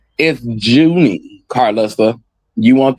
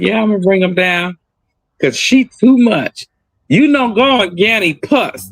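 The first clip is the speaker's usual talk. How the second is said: granny talk; 6 semitones higher than usual. Retold or imitated. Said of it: "I said".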